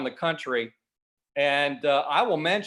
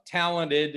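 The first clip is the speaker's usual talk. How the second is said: "talented" slowed right down for emphasis; stress on talented; 2 semitones higher than usual. Real, not acted. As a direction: lean on the word "talented", drawing it out. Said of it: "and I stress that word".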